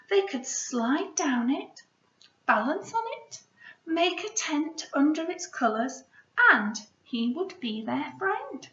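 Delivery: gentle picture book read-aloud; story reading. Acted. Teacher reads picture book aloud.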